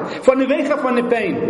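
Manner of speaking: high, loud pained wail; anguished cry. Acted. Preacher to the congregation, reliving his pain, high anguished cry. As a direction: cry the word pain out in torment.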